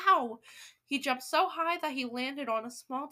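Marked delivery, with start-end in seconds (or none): 0.1-0.4 loud short yell; sudden sharp ow; yelp of pain. A narrator's reading. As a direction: yell as if jabbed. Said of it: "and he yelled".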